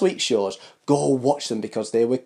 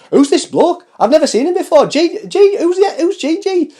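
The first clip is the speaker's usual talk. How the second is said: much higher, louder, baffled put-on voice; imitating a puzzled viewer; 13 semitones higher, 5 dB louder than usual. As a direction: mimic a confused newcomer asking. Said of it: "if you're like".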